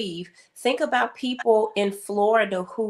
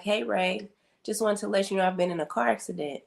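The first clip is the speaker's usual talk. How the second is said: softer, quick and composed, retold sister; casually calm phone call, understated; 5 dB quieter, faster than usual. Sister phoning to report her car accident, very calm. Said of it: "very calm".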